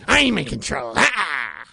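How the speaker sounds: loud, hammy loss of control; mock outburst. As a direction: shout it in fake fury.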